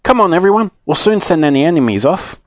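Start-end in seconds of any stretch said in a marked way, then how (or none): 0.0-0.7 high, urgent call; rally the group with a pitched-up call. A narrator's reading. Joe leading the others to help, rallying call.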